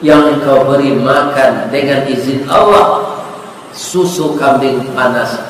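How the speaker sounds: low, gently voiced grateful letter; understated, tender reveal; heartfelt letter. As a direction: read aloud with quiet sincerity. Doctor's grateful letter read out.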